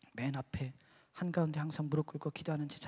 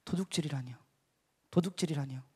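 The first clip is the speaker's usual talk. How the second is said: low, understated objection; retold sober disbelief; stern protest; 4 semitones lower than usual. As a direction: turn serious and question the charge. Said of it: "저도 정색을 했어요".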